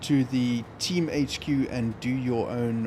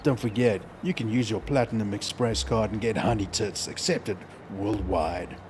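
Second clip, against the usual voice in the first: mock radio voice; 4 semitones lower than usual. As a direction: lower radio ad read. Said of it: "it's kinda like my radio voice".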